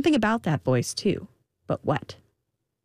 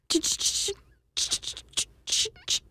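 unfinished, stuttered whispery starts; stuck guessing; 6 dB quieter than usual. A narrator's reading. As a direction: stammer softly, searching for a name. Queen stuck while guessing names.

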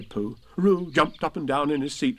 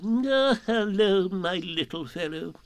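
higher owl voice, gently kindly; 8 semitones higher, slower than usual. A narrator's reading. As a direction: pat him on the head with your voice. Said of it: "in a kindly way".

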